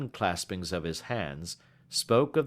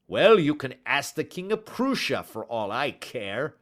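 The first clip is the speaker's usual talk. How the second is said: angry dismissal; 5 semitones higher, 4 dB louder than usual. Acted. Salesman angrily dismissing him.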